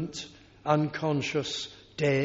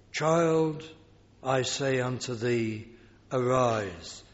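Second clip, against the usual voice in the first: gentle command; 3 semitones lower, slower than usual. Acted. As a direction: wake her gently, like a parent. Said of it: "How gently".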